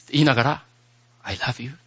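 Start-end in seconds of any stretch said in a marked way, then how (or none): 1.2-1.8 inner voice. Shown as a demonstration. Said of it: "今、心の声です".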